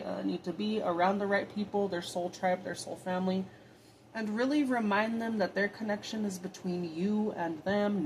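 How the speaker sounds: earnest prayer voice, steady and devout; spoken prayer. Acted. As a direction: pray to Spirit sincerely, from the heart. Prays aloud to Spirit.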